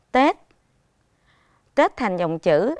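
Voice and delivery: Tết said crisp with a clear final t and short tone; careful pronunciation. Shown as a demonstration. Teacher modelling Tết for pupils, crisp and clear. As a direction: clip Tết cleanly, t held tight at the end. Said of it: "chú ý phát âm từ Tết".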